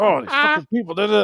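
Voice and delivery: a hammed-up irritated rant; grumbling comedian. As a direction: imitate a man muttering angrily on a walk. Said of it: "walking his dog all pissed".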